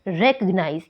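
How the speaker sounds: "रिकॉग्नाइज" with the force on "रि", then falling away; first-syllable stress. Shown as a demonstration. Teacher showing word stress to learners, "रिकॉग्नाइज" stressed on "रि". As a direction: lean on "रि" in "रिकॉग्नाइज", ease off the rest. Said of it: "first syllable पर लगी है".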